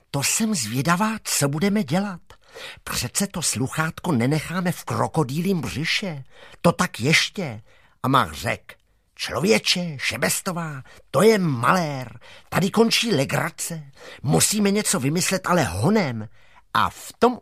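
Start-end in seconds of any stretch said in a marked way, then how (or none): 0.1-7.6 put-on lightly raised, indignant girl; a hint of a cross schoolgirl; girl Šebestová. Schoolgirl insists they won't leave the receiver inside, lightly indignant. 9.2-16.3 put-on lightly raised, urgent boy's voice; a hint of a boy in a hurry; alarmed boy Mach. Boy tells Šebestová they must think of something fast, mildly urgent.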